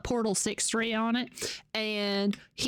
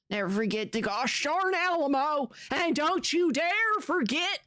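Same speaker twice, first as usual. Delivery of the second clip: stern, theatrical rallying cry; mock battle cry. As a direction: warn them all in mock-heroic fashion. Redoes battle cry with cleaner words.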